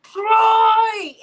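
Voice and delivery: loud, high, drawn-out holler; hollered scolding across the house; retold yell. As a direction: call out the name in exasperation. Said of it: "when I was like".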